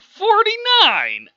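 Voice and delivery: very high, loud, drawn-out number; shouted rival count. Acted. Rival in the baby off, high shouted count. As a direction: top the last score with a yell.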